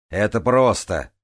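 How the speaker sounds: loud, drawn-out call; calling back. Retold or imitated. Тараэт tells those above it is easy, calling out. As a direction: slowly call out reassurance. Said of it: "откликнулся Тараэт".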